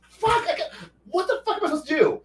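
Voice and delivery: high, fast panicked dragon voice; shrill-pitched panic of a trapped beast. Pretend. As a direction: squeal it like a cornered dragon.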